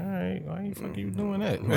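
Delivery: high, giggling question; mock bafflement through laughter; laughing disbelief. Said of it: "I'm like".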